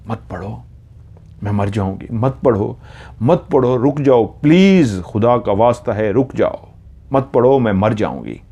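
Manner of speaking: retold begging that builds to an urgent please, then eases; pleading. Captured girl begs the narrator to stop reciting, retold as pleading. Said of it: "गिड़गिड़ा रही थी".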